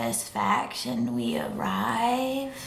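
unvoiced evil whisper. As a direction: whisper it with relish. Evil snake gloating.

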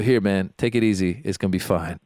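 low, easy reassurance; calm an upset kid down; mock soothing. Acting out soothing a crying child.

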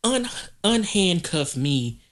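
haughty imitation, slowed and laughing; hammed-up indignant reality star; mock prissy arrestee. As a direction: play the entitled woman pleading with the officer. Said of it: "that's exactly how she be talking".

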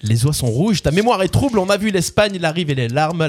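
measured spoken lyrics, each line set apart; lyric recitation. Acted. Quiz host repeating lyrics on request, measured recitation. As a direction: recite the words like verse, without singing.

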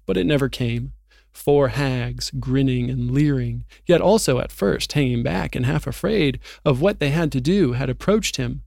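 steady audiobook read-aloud, letting the drama build; story narration. Acted. Reading Narnia's arrest of Aslan to his co-host, story narration.

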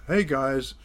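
showing off the letter, a mild mock yell; mock shout. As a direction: call it out like a proud announcement. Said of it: "shouting at the top of his voice".

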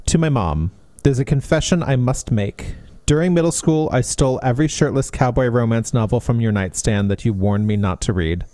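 measured, sincere reading voice; gentle reading, dropping low at sentence ends; dedication read aloud. Acted. Reads the book's dedication aloud.

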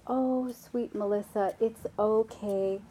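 lightly voiced soothing mother; a touch of patient, tender coaxing; gentle mom. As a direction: gently reassure a whining child. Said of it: "Mom says no very gently".

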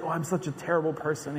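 mocking the overly pious, softly; mock self-pity. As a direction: sigh out terrible like a self-pitying sinner. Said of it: "go around and say".

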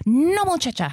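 scolding abuelita. Retold or imitated. Abuelita corrects her granddaughter's Spanish, mock scolding.

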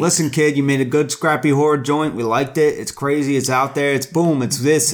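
brash fast-talking producer; studio executive voice. Retold or imitated. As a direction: sell the deal like a mogul. Plays studio executive pitching.

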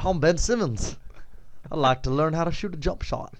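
lightly put-on Australian accent; amateur Australian impersonation, played for laughs; Ben Simmons, mock Australian. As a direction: have a go at an Aussie accent. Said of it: "Please say that in Australian accent".

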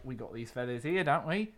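a light put-on Australian accent, wry; a glum emu griping about its wings in a jokey Australian accent; mock Australian accent. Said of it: "stop doing that accent".

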